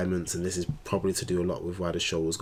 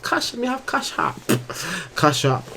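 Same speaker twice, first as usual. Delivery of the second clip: put-on high playful Jamaican accent, louder; 11 semitones higher, 4 dB louder than usual. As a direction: lean into a Jamaican patois lilt. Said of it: "my Jamaican accent coming out".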